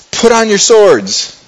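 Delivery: acted heated order to his men; rally the men to arms; heated David. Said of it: "And David's really heated".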